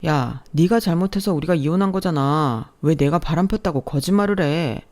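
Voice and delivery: heated ex-husband. Acted. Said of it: "더욱 흥분해서 목소리를 높였어요".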